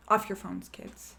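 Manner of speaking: a light stern teacher scolding; mock schoolteacher scolding a class; strict teacher voice. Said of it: "really good elementary school teacher".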